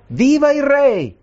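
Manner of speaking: high, drawn-out cheer read aloud; shouted acclamation. A narrator's reading. People acclaiming their newly crowned king, high drawn-out cry. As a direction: cry it out high, stretching the words.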